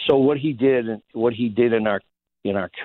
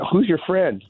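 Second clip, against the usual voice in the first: amused buddies; 10 semitones higher than usual. Retold or imitated. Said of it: "They're like".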